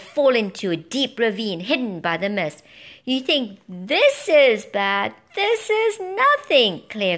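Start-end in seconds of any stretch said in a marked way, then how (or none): 3.0-6.8 high, loud, slow spooky taunt; high, slow gloating bird. A narrator's reading. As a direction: savour the scary threats.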